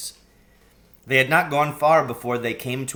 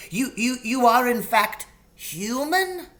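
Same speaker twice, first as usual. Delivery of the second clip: stammering faun; 12 semitones higher than usual. Acted.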